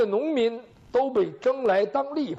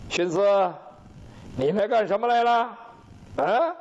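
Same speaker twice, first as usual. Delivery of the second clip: menacing king. Acted. King confronts minister with drawn bow.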